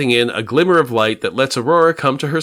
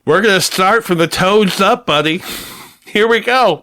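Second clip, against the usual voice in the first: menacing torturer; 7 semitones higher, 4 dB louder than usual. Retold or imitated. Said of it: "Box is just like".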